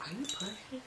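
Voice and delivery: very soft imitation of a husband mouthing words; mouthed aside. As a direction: ask it under your breath, discreetly. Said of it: "he mouths him to me".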